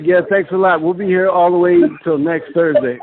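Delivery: mock flat Midwestern stage thanks; deadpan bandleader signing off; plain Midwest voice. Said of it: "And me, I sound like this".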